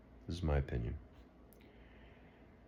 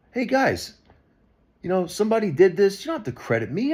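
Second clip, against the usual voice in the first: higher, louder mock video-maker voice; lightly voiced video maker; 12 semitones higher, 6 dB louder than usual. Imitating a viewer making their own video, breezy. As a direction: play a casual stranger posting a video. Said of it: "Make your own video".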